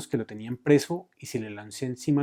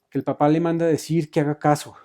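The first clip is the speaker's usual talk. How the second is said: louder, higher call to mother; shouted message; 4 semitones higher, 8 dB louder than usual. A narrator's reading. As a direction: son calling out urgently. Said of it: "le gritó Segundo a la mamá".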